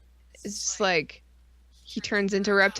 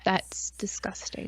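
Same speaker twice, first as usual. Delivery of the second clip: mock disgust; 3 semitones lower, 7 dB quieter, slower than usual. Mock disgust at Street Fighter fan.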